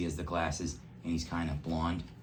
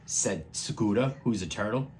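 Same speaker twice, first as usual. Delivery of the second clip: turtle voice; 8 semitones higher, 5 dB louder than usual. Acted. Turtle speaks.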